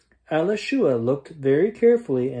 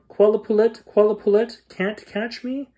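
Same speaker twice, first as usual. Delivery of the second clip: high, louder sing-song quote of the taunt; mock taunt; 8 semitones higher, 4 dB louder than usual. Creatures mock the girl's taunt, high and loud. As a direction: throw her taunt back at her. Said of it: "the child who yelled".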